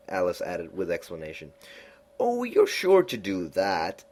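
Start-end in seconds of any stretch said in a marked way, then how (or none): 2.2-4.0 Cheshire Cat voice. A narrator's reading. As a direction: purr it out like a sly grinning cat.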